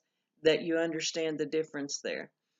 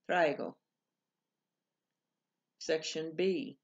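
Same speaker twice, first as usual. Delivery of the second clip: careful dictation of Spanish words, pausing between each; teacher dictating a Spanish word test; slower than usual. Shown as a demonstration. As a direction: read the word list clearly for students to circle. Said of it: "I'm going to read to you the list".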